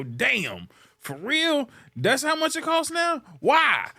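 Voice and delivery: stunned shopper reading a price tag; shocked at the price. Retold or imitated. Customer staring at a price tag, hammed-up disbelief. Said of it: "look at the price and go".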